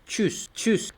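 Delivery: "chus" as a quick sneeze without the a; German Tschüs, short burst on "chus"; como un estornudo. Shown as a demonstration. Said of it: "es como cuando estornudas". ("chus", como estornudo sin la a)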